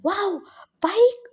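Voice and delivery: high, delighted exclamation; happy surprise. Retold or imitated. Receiving a bike as a gift, happily surprised. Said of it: "वो खुश हो गया था".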